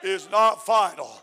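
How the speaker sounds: rising, shouting preacher cadence; fiery preaching. Acted. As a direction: preach it out to the church, building. Preaching at full force.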